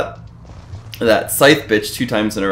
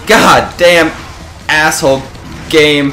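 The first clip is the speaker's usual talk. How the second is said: angry yell; 3 semitones higher, slower than usual. Real, not acted. Raging at the game.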